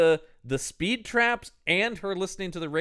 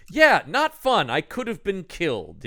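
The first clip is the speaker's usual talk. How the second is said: imitating Jeremy; 4 semitones higher than usual. Jeremy complains to Ralph, high and rueful. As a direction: whine it out like a shaken kid. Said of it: "Robert Downey Junior is just going like".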